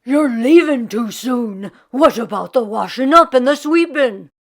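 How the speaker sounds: protesting in dismay; Jamie's voice. A narrator's reading.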